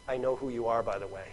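low, soft understatement; quiet aside. Acted. Jesus letting the woman know he knows, low and quiet. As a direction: drop low, letting it slip out. Voices Jesus popping the bubble.

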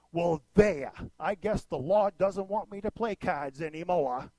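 put-on grandmother's broad Maine accent; thick Maine accent. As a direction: do a huffy Maine grandmother, dropping the R's. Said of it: "in her thick Maine accent".

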